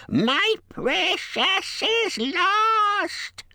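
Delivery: high, slow creature wail; crying Gollum. A narrator's reading. Gollum wailing over his lost precious, crying. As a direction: draw every word out in a piercing lament. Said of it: "Bilbo heard him crying".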